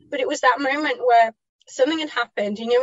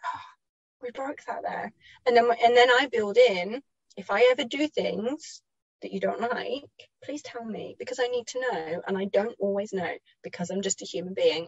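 soft, quiet, tender plea; mother softly asking child to speak up; gentle to child; 2 semitones lower, 4 dB quieter than usual. Retold or imitated. Gentle words to her child.

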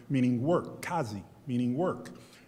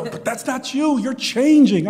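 imitating roommate; 11 semitones higher, 10 dB louder than usual. Roommate objects, quoted.

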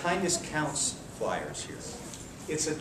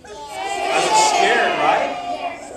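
higher, louder timid voice; mock scared; 9 semitones higher, 7 dB louder, much slower than usual. Shown as a demonstration. Martial arts teacher demonstrating a fearful stance, mock scared. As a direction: act out being scared for the kids. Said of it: "What if I'm this way?".

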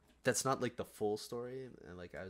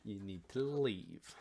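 stern firm order; 4 dB louder, slower than usual. Retold or imitated. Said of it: "Just start yelling".

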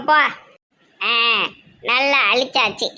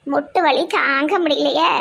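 slow, drawn-out complaint of pain; mild aching lament; aching grandmother; slower than usual. Acted. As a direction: groan it out, dragging the words.

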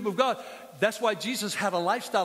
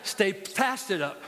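call and response line; much slower than usual. Shown as a demonstration. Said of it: "someone say".

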